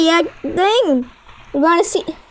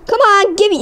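raised-pitch, impatient urging; impatient demand; 5 semitones higher, faster than usual. Real, not acted. Player out of ammo begs the game, impatient demand. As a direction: urge the game to hurry up.

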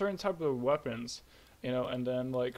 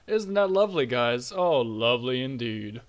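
sarcastic; 2 semitones lower, 7 dB louder than usual. Real, not acted. Sarcastic about bug still happening.

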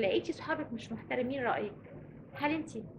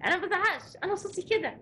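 put-on defensive teen; 5 semitones higher, 3 dB louder than usual. Teen voiced protesting to parent.

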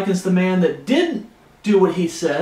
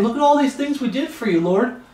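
quick, high mock boast; mocking false believers; 6 semitones higher than usual. Preacher imitating boasting believers before the Lord, high mocking voice. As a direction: rattle off the boast in a higher mocking voice. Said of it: "They're saying".

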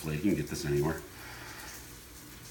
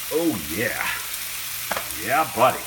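excited yeah buddy; 2 semitones higher than usual. Real, not acted. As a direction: cheer the sear. Pleased with sear.

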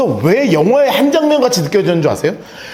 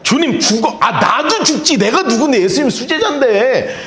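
excited Peter; 3 semitones higher than usual. Retold or imitated. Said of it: "눈이 뻘개져가지고".

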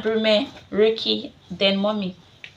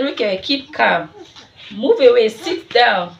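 retold firm command to the child, raised voice; telling him off again, louder; mock stern order; 2 semitones higher, 6 dB louder than usual. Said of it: "And I said".

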